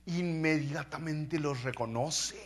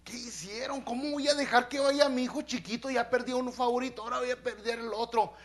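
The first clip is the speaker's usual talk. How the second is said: lament; 8 semitones higher than usual. Retold or imitated. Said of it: "más o menos así les dice".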